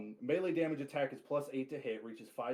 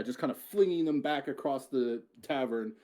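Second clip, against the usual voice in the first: ordinary delivery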